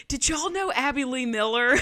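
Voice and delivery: sweet Southern child impression; cute Southern accent. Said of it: "in the cutest Southern accent said".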